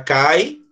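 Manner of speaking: "cai" as one gliding syllable; joined vowels. Shown as a demonstration. Teacher shows reading without accent, joined vowels in "cai". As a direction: say "cai" with the I sliding off the A. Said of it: "se eu não colocar aqui".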